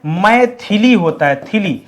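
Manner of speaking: मैथिली spelled out slowly, syllable by syllable; slow spelling demo. Shown as a demonstration. Teacher slowly sounding out the word for students. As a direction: drag out थिली in मैथिली. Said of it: "ऐसे लिखा जाएगा".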